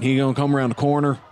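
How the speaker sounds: quick slip into another Southern accent; accidental Southern twang. Real, not acted. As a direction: drift into a different Southern accent. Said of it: "slipped into a different Southern accent".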